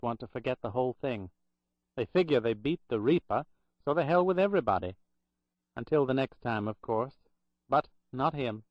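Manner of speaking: put-on Boston accent. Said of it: "in a strong Boston accent".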